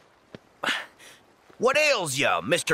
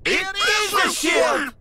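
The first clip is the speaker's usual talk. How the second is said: excited discovery; 6 semitones higher than usual. Acted. Sora finally finds a ship, excited shout. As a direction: shout it out in delight.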